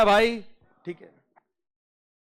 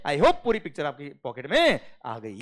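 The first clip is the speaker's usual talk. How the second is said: ordinary talk, nothing marked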